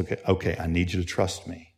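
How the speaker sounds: soft, low plea for trust; gently steady a scared child; reassuring father. Retold or imitated. Father asks son for trust.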